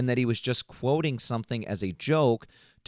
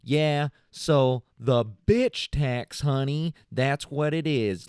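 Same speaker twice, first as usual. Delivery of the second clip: sassy; 2 semitones higher, much slower than usual. Retold or imitated. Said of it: "texted him back saying".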